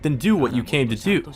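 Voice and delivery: high, mocking bully voice; sneering Shinji. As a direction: taunt him like a spoiled brat. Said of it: "His voice is high-pitched".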